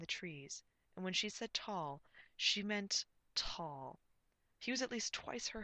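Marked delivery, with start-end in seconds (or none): 1.5-4.0 tall drawn out long; stress on tall. A narrator's reading. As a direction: stretch out the word tall. Narrator emphasizes repeated word tall.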